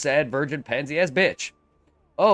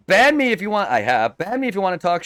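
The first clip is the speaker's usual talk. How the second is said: angry; 4 semitones higher, 6 dB louder than usual. Real, not acted. Heated argument with troll.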